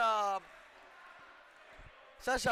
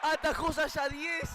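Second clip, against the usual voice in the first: excited save call; 5 semitones higher, slower than usual. Real, not acted. Save called in shootout.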